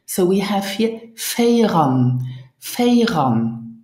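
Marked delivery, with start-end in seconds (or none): 1.2-3.8 "Feiran" with Feier cut to Fei, linked to ran; reduced linked form. Shown as a demonstration. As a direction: model "Feiran" as two joined syllables. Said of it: "we reduce the Feier to Fei".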